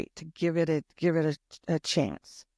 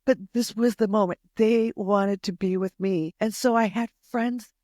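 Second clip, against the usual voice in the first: tearing up; 3 semitones higher than usual. Real, not acted. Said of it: "I'm tearing up".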